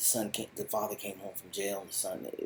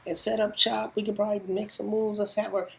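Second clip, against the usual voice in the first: much higher, louder, rushed sales pitch; desperate pitch; 14 semitones higher, 7 dB louder than usual. Retold or imitated. Marty begging the cartel boss with his Ozarks plan, high excited pitch. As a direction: sell the idea to save your life.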